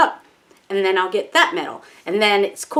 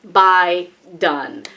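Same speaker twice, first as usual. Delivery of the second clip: decisive outburst; 5 dB louder, slower than usual. Retold or imitated. To herself finally hitting buy, loud decisive cry. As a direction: slam the decision home.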